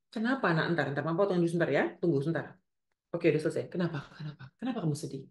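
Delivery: lightly acted gentle mother; caring mother. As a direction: reassure the child, softening toward the last question. Models a kinder mother's response. (ibu lembut menenangkan anak)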